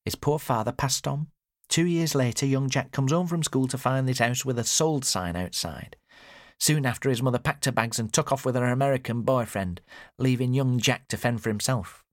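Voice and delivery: high-voiced mother recounting; high-pitched storytelling mother; mother telling the tale. A narrator's reading.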